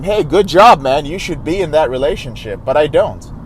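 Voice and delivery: ordinary delivery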